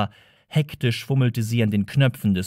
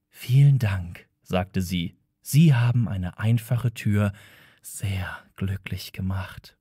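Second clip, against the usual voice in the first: a door's sugary fading thanks; creepy butler; 5 semitones lower than usual. Acted. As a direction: trail off into a whisper. A talking door thanks them.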